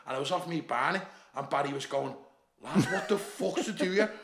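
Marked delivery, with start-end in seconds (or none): 2.6-4.1 high-pitched mock yell of alarm; retold scream. Mate finding him stuck and off his head, mock yelling. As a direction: exclaim it high, imitating a panicking mate. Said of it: "but he's screaming at me".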